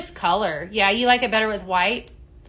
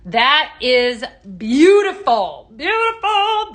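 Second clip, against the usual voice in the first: slow, louder, rising to high delight; louder admiring sigh, then high exclaim; admiring gush; 3 semitones higher, 7 dB louder, slower than usual. Real, not acted. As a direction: savour it, then soar on the repeat. Admiring product, drawn out.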